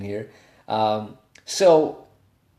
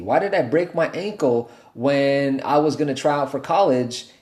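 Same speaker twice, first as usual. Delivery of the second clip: whiny self-pity; 2 semitones higher than usual. Retold or imitated. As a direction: moan about your bad luck. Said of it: "coming from a whinish attitude".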